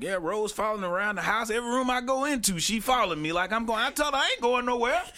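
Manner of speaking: high grandpa impression; old granddad voice. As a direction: complain like an old man. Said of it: "He's like".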